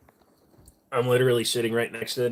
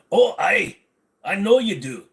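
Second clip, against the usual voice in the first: excited; 10 semitones higher, 7 dB louder than usual. Real, not acted. Reacting to Scottish viewer.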